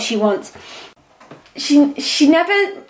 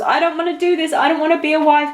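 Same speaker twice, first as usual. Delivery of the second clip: higher-pitched, lightly acted protest; quick, mildly acted refusal, pitched up; voicing her refusal; 5 semitones higher, faster than usual. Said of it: "Then the Seven of Swords".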